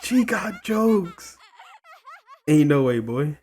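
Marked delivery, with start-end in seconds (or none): none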